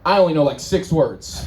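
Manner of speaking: a touch of a dopey guy; lightly voiced simpleton; dim guy voice. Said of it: "guy with a slightly less limited vocabulary".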